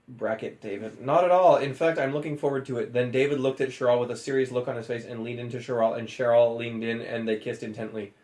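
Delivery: low, serious leading man voice; deep David voice. Acted. Reading the kiss scene in a low, dramatic hero voice.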